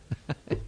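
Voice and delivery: low, brief chuckle; soft chuckle. Real, not acted. Preacher amused at telling congregation they ain't worthy, soft chuckle. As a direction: chuckle softly to yourself.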